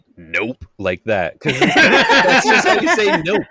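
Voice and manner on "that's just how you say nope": high, slow prospector drawl; a playful old prospector. Pretend. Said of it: "You say it like an old prospector".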